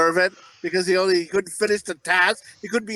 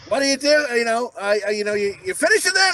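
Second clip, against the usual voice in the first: 1 mom through the door; 5 semitones higher than usual. Retold or imitated. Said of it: "she's like".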